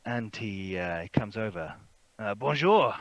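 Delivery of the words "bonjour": higher, louder French-flavoured greeting; airy fop making his entrance; foppish gentleman. Acted. Fop greeting strangers by the fire, foppish. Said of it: "foppish gentleman".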